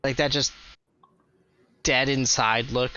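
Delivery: usual speaking voice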